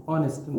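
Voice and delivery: ऑनेस्ट said with a silent h, starting on the vowel; ऑनेस्ट, opening straight on the vowel. Shown as a demonstration. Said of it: "real pronunciation इसका क्या है?". (ऑनेस्ट में ह silent, सीधे ऑ से शुरू करें)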